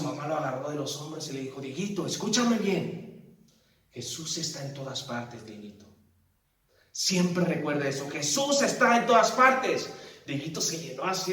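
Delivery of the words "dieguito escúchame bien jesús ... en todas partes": put-on calm the scared boy down; reassuring mother. Mamá calmando a Dieguito asustado, suave y tranquila. Mother calming frightened son.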